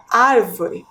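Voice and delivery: "árvore" with weight on the first syllable; stress on ÁR. Shown as a demonstration. Teacher pronounces the word for children, stressing ÁR in "árvore". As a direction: lean on the ÁR of "árvore". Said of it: "a sílaba mais forte é a antepenúltima".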